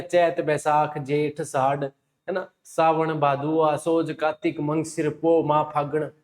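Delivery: चैत, बैसाख, जेठ, साढ़ in homely Marwari form; Marwari month names. Shown as a demonstration. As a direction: list the month names as grandmothers say them. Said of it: "वो pronunciation थाने याद होना चाहिए".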